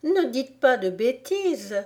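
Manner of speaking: high-pitched Alice protest; high, indignant little retort. Acted. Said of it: "protesta Alice".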